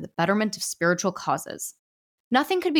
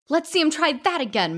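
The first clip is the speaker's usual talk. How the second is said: triumphant gloat; 10 semitones higher, 3 dB louder than usual. Acted. Ghost triumphant after car flees.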